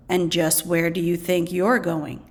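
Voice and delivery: lightly voiced gruff man stopping her; deep voice. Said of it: "asked a deep voice".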